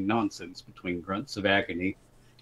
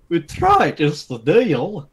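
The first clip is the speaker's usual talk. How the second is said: short brawler's reply; 8 semitones higher, 4 dB louder, slower than usual. Acted. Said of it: "the short one replied".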